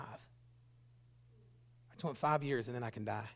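soft, low retold confession; subdued sorrow. Young man with kidney failure confiding, retold with subdued sorrow. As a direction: let it drop soft and heavy. Confession repeated after pause.

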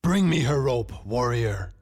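high, loud attack falling on the last word; roared order. A narrator's reading. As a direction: order the guard as an angry king. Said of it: "the king ordered the guard".

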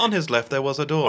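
posh Oxford English narrator voice; Oxford accent. Pretend. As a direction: repeat it as a smug Oxford narrator. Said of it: "in an Oxford accent".

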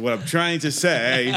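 slow, laughing through words; stoned and giggling. Real, not acted. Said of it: "I'm high as fuck right now".

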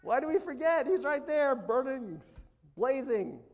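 loud, high, exclaimed appeal; impassioned preaching. Real, not acted. Preacher asking why we forget, loud and impassioned. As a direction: cry it out to the congregation at full force.

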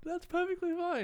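slow, high, unbothered villain voice; hammed-up creepy calm; mock evil villain. Mock evil acceptance of murder.

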